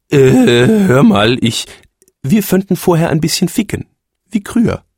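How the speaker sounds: lauter, stockender Ausweichversuch; verlegener Phönix. A narrator's reading. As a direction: druckst herum und schlägt etwas vor. Verlegener Ehemann am Telefon. (der Phönix druckst am Telefon herum)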